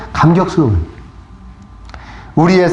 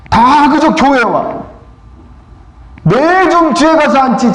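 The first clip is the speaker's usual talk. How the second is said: slow and higher, building feeling; rising emotion; 8 semitones higher, slower than usual. Real, not acted. Preacher telling how he prayed for others, moved. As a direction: let the wonder swell.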